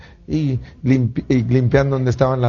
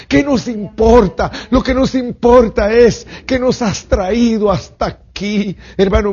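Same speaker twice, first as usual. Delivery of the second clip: rising, louder preacher cry; preaching at full force; 8 semitones higher, 3 dB louder than usual. Acted. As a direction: build the sermon up to a high shout. Predica con fuerza creciente. (predicación a todo pulmón)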